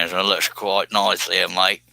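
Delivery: lightly put-on Australian accent; slow, attempted Aussie accent; Aussie Man Bill. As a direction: try a relaxed Australian accent. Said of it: "if I was Aussie Man Bill, I'd probably say".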